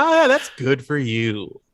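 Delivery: patronizing. Retold or imitated. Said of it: "a very friendly face and a very, um, patronizing tone".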